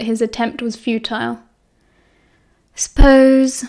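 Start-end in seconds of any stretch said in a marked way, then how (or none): 2.7-3.6 lightly grunted reply. A narrator's reading. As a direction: grunt the word out grudgingly. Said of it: "Sirius grunted".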